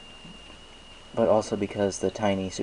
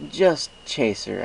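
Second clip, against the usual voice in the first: quick correction; 4 semitones higher, 5 dB louder, slower than usual. A narrator's reading. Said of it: "I corrected quickly".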